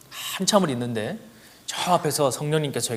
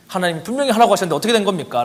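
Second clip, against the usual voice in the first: desperate prayer; 5 semitones higher, 4 dB louder, faster than usual. Retold or imitated. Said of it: "라고 막 기도를 했더니".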